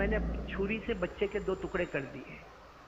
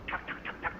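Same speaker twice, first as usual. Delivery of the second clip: door knocking; 8 dB quieter than usual. Retold or imitated. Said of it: "कोई दरवाजा खिटखिटा रहा है".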